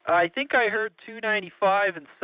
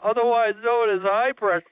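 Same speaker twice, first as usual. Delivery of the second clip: talking through hiccups. Real, not acted. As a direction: hiccup interrupting the words. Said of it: "I got the hiccups".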